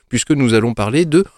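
slow, loud, high trailer voice; dramatic announcer. Acted. Grand announcement of the game.

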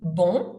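"Bon" with a nasal O ending; French "Bon" demo. Shown as a demonstration. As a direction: say "Bon" through the nose. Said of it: "That's the French on".

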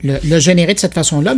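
ordinary talk

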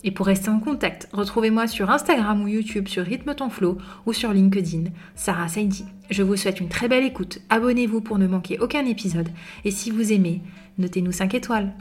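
upbeat announcer read over music; podcast intro read. Acted. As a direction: sell the show like a polished radio intro. (lecture d'introduction de podcast, ton d'animatrice)

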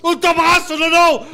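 hammed-up southern accent tribute shout; southern announcer accent. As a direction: belt it like a southern village PA announcer, slow and emotional. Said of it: "je l'ai fait avec l'accent du Sud".

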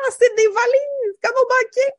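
excited high squeal; voix aiguë excitée. Real, not acted. Excitée par les valises. (voix très aiguë et enjouée)

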